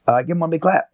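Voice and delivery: high, upbeat coach call; no longer mad. Retold or imitated. Coach forgiving a kid before the camp, upbeat. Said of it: "And I'm not mad anymore".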